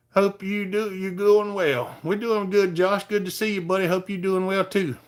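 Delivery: lifted friendly shout-out; cheery greeting. Real, not acted. Greeting viewer Josh.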